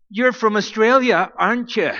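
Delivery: barista's question. Retold or imitated. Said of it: "then he says to me".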